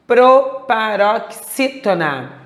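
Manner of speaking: proparoxítona slowly broken into separate syllables. Shown as a demonstration. Teacher naming the word's class, syllable by syllable. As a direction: sound out proparoxítona piece by piece.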